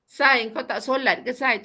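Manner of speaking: confronting question with a drawn-out "Sai"; wrong intonation. Shown as a demonstration. Friend slowly questioning a friend about praying, wrong intonation. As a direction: stretch "Sai" and "kau tak solat ke" accusingly. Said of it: "Itu salah tu".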